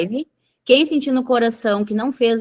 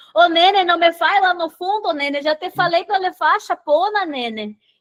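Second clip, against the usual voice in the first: high, put-on, laid-on foreign grandmother accent; 8 semitones higher than usual. Recalling a bit from a long car trip, imitating a foreign grandmother. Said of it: "uma imitação de uma, uma avó gringa".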